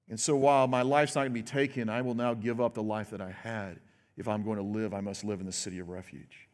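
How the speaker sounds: the fugitive resigning himself, fading; fading resigned voice. Retold or imitated. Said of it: "The idea was".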